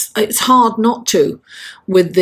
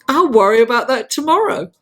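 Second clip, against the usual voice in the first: lightly put-on American accent, lifting at the end; a hint of American movie heroine; Scarlett O'Hara; 3 semitones higher, faster than usual. Sharing her life motto, mock American accent.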